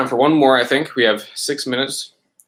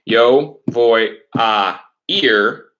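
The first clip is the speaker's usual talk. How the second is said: slow dictation; 4 dB louder, much slower than usual. Shown as a demonstration. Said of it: "teacher models sentence slowly".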